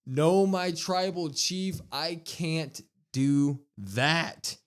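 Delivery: slow, drawn-out retold refusal; Paul Heyman. Wise man refusing his tribal chief, slow and grave. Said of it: "Paul Heyman looks at Roman Reigns and he says".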